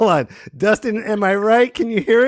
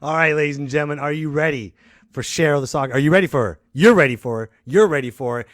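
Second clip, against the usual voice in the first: hype announcer; 6 semitones lower, faster than usual. Acted. Announcer hyping the guest.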